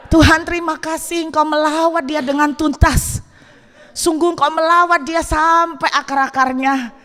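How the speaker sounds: overjoyed prayer. Retold or imitated. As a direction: pray with giddy, laughing joy. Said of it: "Saya semakin terharu".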